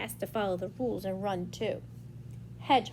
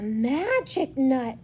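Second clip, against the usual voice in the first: drawn-out storybook exclamation; mild mock shout; 2 semitones higher, 4 dB louder, much slower than usual. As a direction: marvel slowly at magic. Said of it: "shouted Littlest Rabbit".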